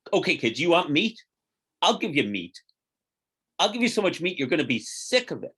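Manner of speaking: exasperated parent. Retold or imitated. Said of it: "God loses God's temper and says".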